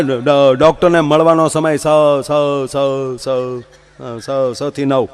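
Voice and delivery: doctor scolding, stuck on every syllable; stammering doctor. Retold or imitated. Stammering doctor scolding a late-night patient, mild stutter. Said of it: "બહાર board માર્યું છે".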